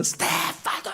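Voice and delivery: 목을 쥐어짜는 쉰 고함 흉내; 신경질 난 딸을 높은 톤으로 흉내. Retold or imitated. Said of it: "막 목에 핏대를 세우고". (핏대 세우며 내지르는 딸 흉내)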